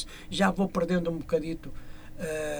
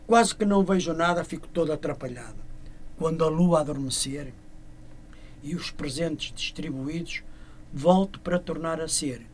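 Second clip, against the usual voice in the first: measured verse, pausing between lines, settling lower; poem recitation; 3 semitones lower than usual. Acted. Singer ending his Father Christmas verse, poem recitation.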